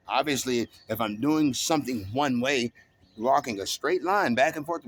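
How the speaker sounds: venting hard about being kept from his routine; a fed-up man ranting about his neighbours; angry rant. Real, not acted. Real rant about his living situation.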